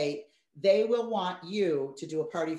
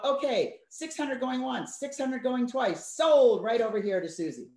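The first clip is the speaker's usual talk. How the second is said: slow going once, going twice, then a louder sold; mock auctioneer; 4 semitones higher, 4 dB louder than usual. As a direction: drag out the count and bang down on sold. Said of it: "I love to be an auctioneer".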